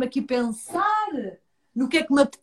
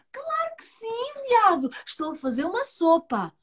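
turtle voice; 8 semitones higher than usual. Acted.

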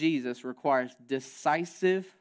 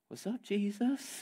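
much softer, slow, dazed question; bewildered disciples; 5 semitones higher, 8 dB quieter, slower than usual. Pretend. Stunned disciples after the vision.

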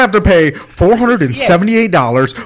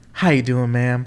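put-on Southern accent; 5 semitones lower, 6 dB quieter than usual. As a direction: lay on a charming Southern accent to the agent. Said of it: "put my little South fucking accent on".

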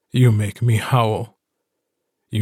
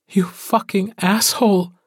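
high, pitched-up angry curse; furious outburst; 9 semitones higher than usual. Acted. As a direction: she spits out the insult in a rage. Woman's grief bursts into anger.

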